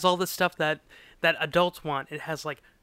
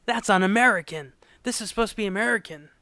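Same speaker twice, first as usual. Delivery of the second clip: indignant quote; 5 semitones higher, 4 dB louder, faster than usual. Retold or imitated. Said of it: "And he's like".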